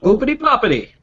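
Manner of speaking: squeaky playful nonsense; high silly singsong. Pretend. Silly nonsense sound play.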